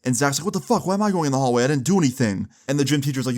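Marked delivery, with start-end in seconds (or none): 0.4-2.5 high-pitched whiny disbelief, easing down; indignant protest. Retold or imitated. Zach objects to the hallway, indignant. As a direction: imitate a student protesting his innocence. Retold protest at being sent out.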